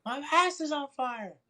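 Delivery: high, loud mock wail; screaming in pain. Four-year-old waking from a burning dream, mock pained scream. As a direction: yelp it like you are burning. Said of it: "screaming in pain".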